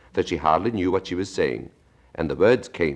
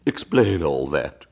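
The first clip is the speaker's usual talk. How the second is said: slow Mock Turtle voice; 3 dB louder, slower than usual.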